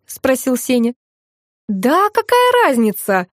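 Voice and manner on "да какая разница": slow, higher-pitched impatient protest; agitated. A narrator's reading. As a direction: brush it off with mild agitation. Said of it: "ажитировал мой муж". (возбуждённо, нараспев отмахнуться)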